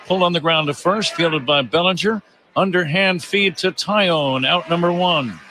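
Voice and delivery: brisk ground-out call; play-by-play call. Real, not acted. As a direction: follow the play live, pitch lifted.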